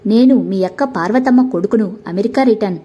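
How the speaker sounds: ordinary delivery, nothing marked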